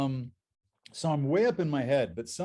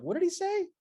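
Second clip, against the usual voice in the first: baffled viewers. Retold or imitated. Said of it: "They're like".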